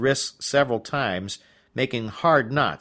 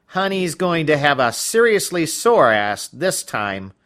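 louder, firm dominatrix threat; stern mistress; 4 semitones higher, 6 dB louder than usual. Acted. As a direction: lay down the threat like a strict mistress. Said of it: "she said".

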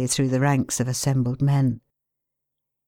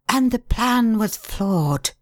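higher, slow, curt retort; snapped; 8 semitones higher, slower than usual. A narrator's reading. Pale man rebukes the grovelling ex-mayor, snapping. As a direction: cut him off coldly. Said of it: "snapped the pale man".

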